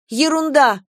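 high, loud outburst; indignant retort. A narrator's reading. Girl flares up at the accusation, loud. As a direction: flare up in protest. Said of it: "вскинулась я".

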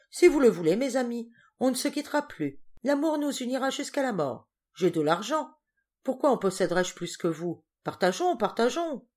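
put-on high, loud drunken oration; rapturous. A narrator's reading. Henri proclaiming to his new friends, high and rapturous. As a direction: preach brotherhood to the room.

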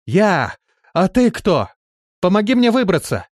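very high, loud plea from below; the trapped woman shouts up to be pulled out; shouting up. A narrator's reading. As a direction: yell up for rescue. Shouting up from well.

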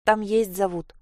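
usual speaking voice

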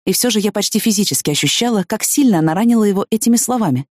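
usual speaking voice

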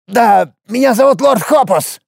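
high, creaky, stammering little dwarf. A narrator's reading. Dwarf Hopus stammers under the destroyer's stare, high and creaky. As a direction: stutter it out, terrified and creaking.

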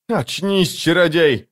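high urgent exclamation; acted high-pitched outcry; exclaiming. A narrator's reading. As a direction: call out high to rouse someone. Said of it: "воскликнула женщина".

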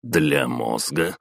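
slow doubtful rise on "Для мозга?"; incredulous. Acted. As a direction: drag "Для мозга?" out, grimacing. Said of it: "скривился спецагент".

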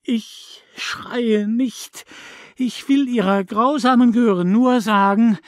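high, loud furious tirade; mother raging at the neighbour; torrent of rage. A narrator's reading. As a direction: pour out pain and rage without stopping. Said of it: "als ströme in ihr ein Sturzbach aus Wut".

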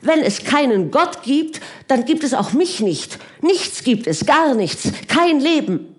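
trembling passion. A narrator's reading. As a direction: pour it out on the edge of tears. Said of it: "ihre Stimme bebte".

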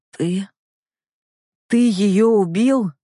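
slow rasped disbelief, pitch up; hoarse gasp. A narrator's reading. Fahir to his aide, rasping in disbelief. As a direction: choke the words out in shock. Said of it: "прохрипел он".

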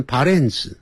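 imitated Japanese pronunciation of "parents"; Japanese-accented English. Teacher recalling old mistakes to students, Japanese-accented "parents". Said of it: "学日本人的念法".

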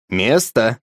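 calm, firm repeat of the order; repeated firm command. Acted. Grandpa repeats the order to the dog, firmly. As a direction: say it again, flat and insistent. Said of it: "повторил дед".

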